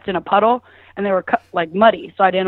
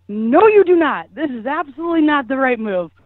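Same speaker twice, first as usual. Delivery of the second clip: emphatic refusal; 4 semitones higher than usual. Retold or imitated. Woman stopping her hookup answering the door, emphatic. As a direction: re-enact flatly forbidding it.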